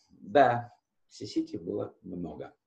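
ordinary talk, nothing marked

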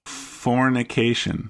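Fornication said slowly, stretched out; drawn-out fornication. Shown as a demonstration. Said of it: "spelled F A U X".

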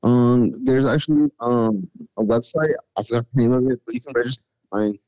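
choppy muffled phone audio; bad phone line, underwater sound. Real, not acted. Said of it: "it sounds like you're underwater".

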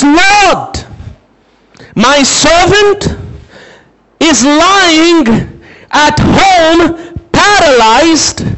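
very slow, tearful plea; pleading centurion. Retold or imitated. Centurion begging Jesus for his servant, slow tearful plea. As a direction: beg Jesus slowly, voice near breaking.

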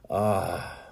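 long, blissful "ah" sigh; ecstatic sigh. A narrator's reading. Bather plunged into cold water, sighing in ecstasy. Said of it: "I sighed in ecstasy".

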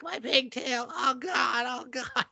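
high, hammed-up anguished cry; mock wailing. Girl mourning her chopped pigtail, wailing comically. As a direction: wail as if it were a lost limb.

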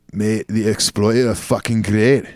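a light, half-hearted Scottish accent, a bit slow; hesitant mock Scottish accent; Scottish accent attempt. Shown as a demonstration. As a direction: try a Scottish accent on request, only lightly. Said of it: "Try it".

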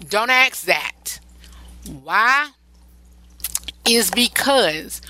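hushed warning, all breath; whisper. Real, not acted. Host warns single listeners in a confiding whisper. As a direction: lean in and whisper it like a secret.

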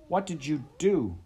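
high, loud pleading cry. Acted. Heather pleading with Kyle, loud and desperate. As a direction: beg him to explain. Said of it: "she pleaded with him".

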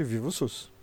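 usual speaking voice

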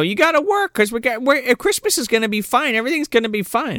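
hammed-up motherly pep talk; mock Missus Claus. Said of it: "telling the elves to be like".

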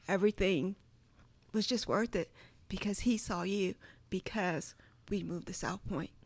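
soft, sincere talking to God; quietly moved, speaking privately to God; heartfelt prayer. Retold or imitated. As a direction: retell a grateful prayer, hushed.

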